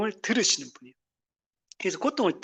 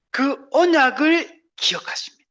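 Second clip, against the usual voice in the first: whisper; 7 semitones higher, 3 dB louder than usual. Real, not acted. Preacher whispers key promise.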